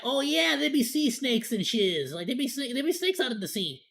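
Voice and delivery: ordinary talk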